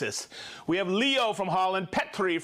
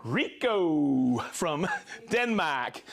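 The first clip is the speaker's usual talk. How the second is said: laughing; 3 semitones lower, much slower than usual. Real, not acted. Laughs over the name.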